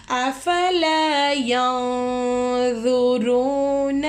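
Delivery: slow melodic tajweed chant; Quran recitation. Acted. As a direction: draw out each verse in measured chant.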